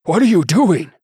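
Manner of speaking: high, loud startled yelp; jolted awake in fright; a bishop yelps at the armed knight; half-choked yelp. A narrator's reading. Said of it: "he managed a half-choked yelp".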